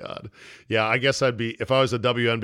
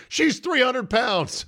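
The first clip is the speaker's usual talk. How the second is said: mock coach yell; 11 semitones higher, slower than usual. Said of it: "This coach is screaming at the refs".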